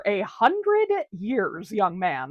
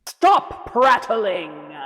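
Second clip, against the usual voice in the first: spooky ghost; 4 dB louder, much slower than usual. Acted. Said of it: "the whole spooky, scary thing".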